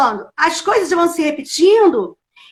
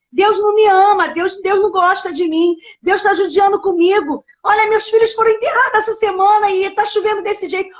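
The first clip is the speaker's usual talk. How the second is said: lamento reencenado; 3 semitones higher than usual. Retold or imitated. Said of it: "Por que que você tá chorando?".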